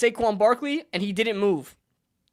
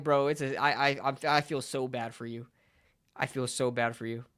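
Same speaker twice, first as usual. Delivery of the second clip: low, soft mock sympathy; pitying; 8 semitones lower, 8 dB quieter than usual. Streamer acting his reply to deluded fans, pitying. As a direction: drop right down into quiet, deadpan pity.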